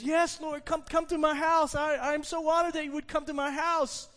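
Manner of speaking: eager, honored host welcoming a guest; thrilled. Acted. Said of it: "he's, he's thrilled".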